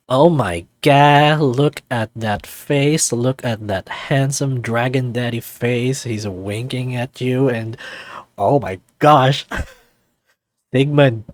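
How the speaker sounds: loud, slow swooning with giggles; real giddy delight; gushing. Real, not acted. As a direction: fawn over the handsome face. Gushing over the picture, laughing.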